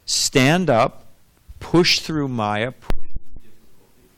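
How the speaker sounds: emphatic, drawn-out exhortation; forceful preaching. Real, not acted. Teacher urging devotees to stand and fight, forceful preaching. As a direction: stretch the key words like a rallying preacher.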